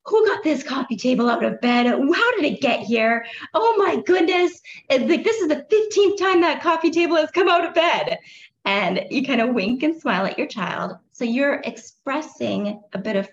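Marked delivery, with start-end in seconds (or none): 0.1-8.2 hammed-up, higher and louder grumble at the furniture, breaking into a laugh; a staged rant at the coffee table for the child's benefit, mock exasperated and laughing; mock exasperation. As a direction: play-act being fed up with the coffee table, winking. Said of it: "talking to the coffee table or talking to the couch".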